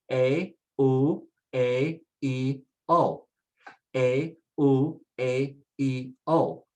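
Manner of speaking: A, U, A, E, O as separate Spanish sounds, eh, oo, eh, ee, oh; isolated vowels. Shown as a demonstration. Teacher does the vowels before the name, isolated vowels. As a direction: step through A, U, A, E, O vowel by vowel. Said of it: "again, let's do the vowels".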